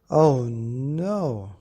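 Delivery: loud fed-up oh no; exasperated cry. Acted. Daddy Bear kept awake by snoring, loud exasperated cry. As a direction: groan it out, fed up. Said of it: "said Daddy Bear".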